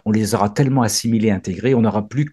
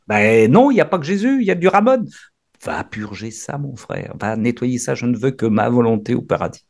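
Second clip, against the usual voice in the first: Jesus judging. Acted. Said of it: "Il dit, Jésus, il dira ça".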